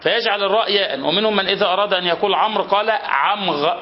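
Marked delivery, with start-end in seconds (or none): 3.0-3.7 "عمغ" ending in a throaty gh instead of r; gh for r lisp. Shown as a demonstration. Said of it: "ونطق الراء غين".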